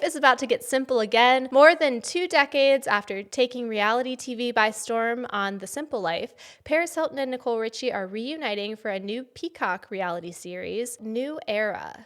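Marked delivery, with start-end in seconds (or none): 4.2-6.3 news anchor voice. Shown as a demonstration. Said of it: "Did you hear my news anchor voice?". 6.6-12.1 first try at a news read; stumbling news anchor read. Shown as a demonstration. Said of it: "Did you hear my news anchor voice?".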